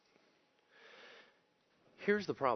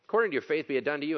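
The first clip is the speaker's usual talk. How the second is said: According said louder and firmer; According punched as the problem line; louder reread; 7 semitones higher, 6 dB louder, much faster than usual. Shown as a demonstration. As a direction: press on According, be it done to you said fully. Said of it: "That's the problem line".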